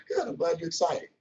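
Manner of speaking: calm, even, unbothered; composed and cool. Retold or imitated. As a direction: keep it cool and collected. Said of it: "I keep my composure on".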